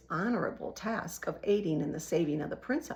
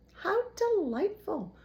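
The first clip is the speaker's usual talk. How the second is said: high, slow, gleeful rat; delighted rat; 11 semitones higher, 5 dB louder, slower than usual. A narrator's reading. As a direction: savor it with wicked glee.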